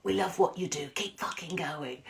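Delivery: a quiet aside of support; quiet hello. Retold or imitated. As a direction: say it softly so nobody hears. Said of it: "came up to say hello quietly".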